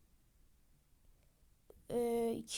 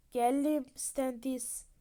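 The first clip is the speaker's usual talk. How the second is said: slow ominous arrival; 4 dB louder, much slower than usual. Acted. Figure arrives, drawn out.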